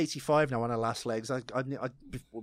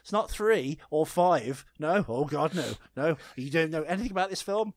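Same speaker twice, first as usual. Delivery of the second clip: panicked; 3 semitones higher, 4 dB louder than usual. Retold or imitated. Host retelling their panic over the research, panicky. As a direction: act out fretting at yourself, rising as it goes. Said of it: "I was so panicky".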